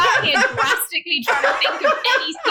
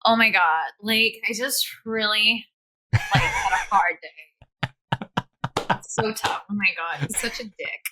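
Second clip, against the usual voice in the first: American accent; 6 semitones lower than usual. Shown as a demonstration. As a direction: put on a lazy Los Angeles American accent. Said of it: "can you do an American accent?".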